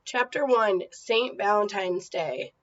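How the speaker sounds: put-on steady read-aloud voice for kids; story reading. Teacher reads chapter book aloud, storytelling voice.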